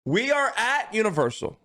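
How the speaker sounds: "We are at Universal" pitched high with a falling finish; grand storyteller reading "We are at Universal"; dramatic scene-setting. Shown as a demonstration. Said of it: "let me set the scene".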